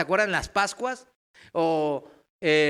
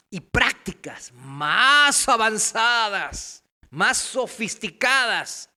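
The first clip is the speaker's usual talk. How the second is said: false teachers' objection; 4 dB louder than usual. Retold or imitated. False teachers tell believers they need more advanced practices, emphatic objection. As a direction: stretch the key words as if selling something superior. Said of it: "Pero dicen".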